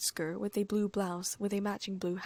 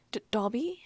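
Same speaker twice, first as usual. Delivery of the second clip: out of breath; 4 semitones higher, 4 dB louder than usual. Acted. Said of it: "Harry gasped, out of breath".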